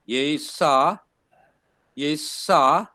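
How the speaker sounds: Yesa said as yay-sah, two syllables, rising; wrong pronunciation. Shown as a demonstration. Teacher showing the class the wrong way to say Yesa. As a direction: sound it out as Yesa without the diphthong split. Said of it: "That's how I would pronounce it".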